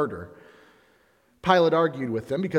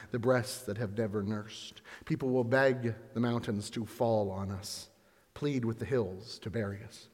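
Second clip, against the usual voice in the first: quiet lament; 3 semitones lower, 6 dB quieter than usual. Acted. Jesus to weeping women.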